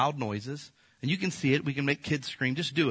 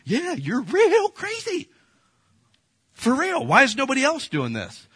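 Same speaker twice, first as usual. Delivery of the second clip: mocking sarcastic reply; 12 semitones higher, 5 dB louder than usual. Preacher mocking people who call their fears real, in a high put-on voice. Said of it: "And I'm like".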